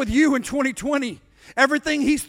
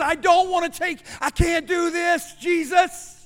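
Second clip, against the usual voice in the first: pleading; 3 semitones higher than usual. Acted. Jesus pleads, weighed down, in garden.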